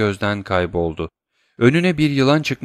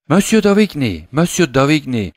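high, loud desperate call; shouting for help; 4 semitones higher, 4 dB louder than usual. Acted. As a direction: scream for the doctor to come. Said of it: "diye bağırdı Valentine". (doktoru çağıran genç kız, yüksek ve tiz bağırış)

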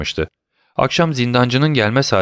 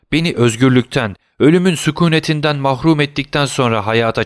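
raised pitch, pleading with God; anguished plea; 3 semitones higher than usual. Acted. Prisoner begging God for mercy, anguished plea. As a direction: beg for mercy, restrained despair. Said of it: "diye haykırdı".

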